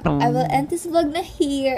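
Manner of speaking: Taglish konyo drawl on "I will end this vlog na here"; slow posh Manila konyo English, "vlog" stressed; konyo accent. Shown as a demonstration.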